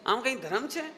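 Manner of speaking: mock disapproving questioning; scornful mimicry. Teacher mimicking those who sneer at puja and rituals, scornful. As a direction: imitate someone scornfully challenging worshippers. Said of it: "जो आप चेहरा बिगाड़ के बोलो".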